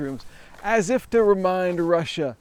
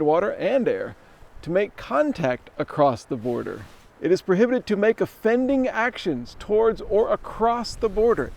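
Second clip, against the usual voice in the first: reading a sign aloud; 3 semitones higher than usual. Shown as a demonstration. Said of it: "this sign explains it all".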